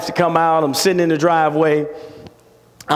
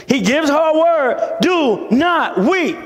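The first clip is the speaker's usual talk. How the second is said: emphatic preaching; 9 semitones higher, slower than usual. Real, not acted. Preacher drives the point home.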